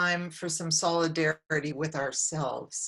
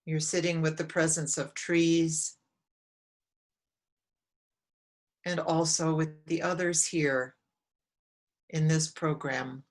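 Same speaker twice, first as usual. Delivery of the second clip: calm, measured meditation guide with long pauses; unhurried guidance, phrase by phrase; guided meditation. Real, not acted. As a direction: lead them gently inward, leaving long silences between phrases.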